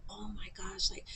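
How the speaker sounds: half-whispered worry, as if freaking out. Retold or imitated. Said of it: "and I'm freaking out".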